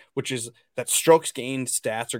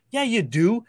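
mocking yeah; 8 semitones higher, 4 dB louder than usual. Mocking the gambler's belief.

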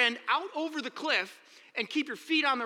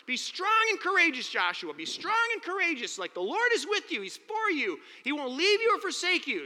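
raised, ringing proclamation of the charge; booming charge; 5 semitones higher than usual. Retold or imitated. Preacher booming God's words to Joshua, raised and ringing. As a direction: proclaim it like a preacher rallying the room.

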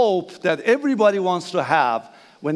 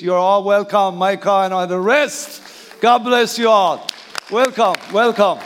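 calling out a warm welcome to the room, louder; booming greeting across the church; 4 dB louder than usual. Real, not acted. Pastor calling out welcome to congregation.

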